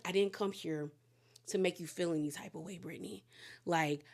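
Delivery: low, soft, quick mock sweet-talk; sleazy smooth talk. Man telling his ex he misses her, sleazy murmur. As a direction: imitate a sleazy man pleading softly. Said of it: "He's so sleazy".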